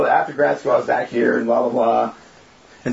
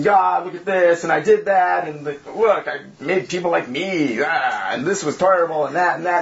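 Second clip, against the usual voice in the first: lightly acted griping to God; mock wailing complaint. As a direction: rattle off a mild mock lament. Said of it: "wail and this".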